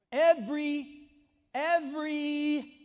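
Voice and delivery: loud and high, stretching out the first every; thundering scripture reading; full-force preaching. Real, not acted. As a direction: proclaim the verse to the back of the church.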